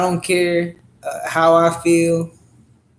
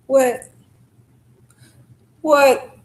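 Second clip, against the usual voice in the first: incredulous what; 8 semitones higher, 4 dB louder than usual. Real, not acted. Mock questioning after rant.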